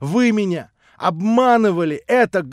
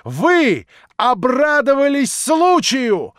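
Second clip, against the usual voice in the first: slow, louder, higher furious cry; Natasha beside herself; 3 semitones higher, 5 dB louder, slower than usual. Acted. Natasha accusing the prince before everyone, beside herself. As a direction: hurl it at him, out of control. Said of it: "вскричала Наташа вне себя".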